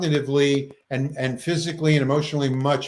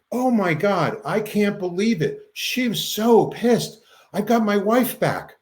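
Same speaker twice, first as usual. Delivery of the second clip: overjoyed husband; 6 semitones higher than usual. Retold or imitated. Husband on the phone about his wife, lightly voiced joy. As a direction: voice a husband who can't believe it.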